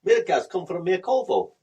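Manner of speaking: a hint of the meerkat advert; lightly voiced advert meerkat. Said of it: "That's what it says in the advert".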